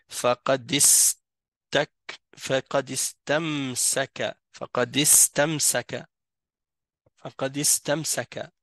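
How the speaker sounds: "فقد استمسك" joined as faqadistamsaka, repeated as a model; silent hamzat al-wasl. Shown as a demonstration. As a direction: run the D of "فقد" straight into "استمسك". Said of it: "c'est comme s'il était pas là".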